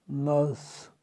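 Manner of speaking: नर्स said "nus", no r sound; नर्स with the r dropped, long u; nurse with silent r. Shown as a demonstration. Teacher showing students नर्स with silent r. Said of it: "जिसमें आर silent है".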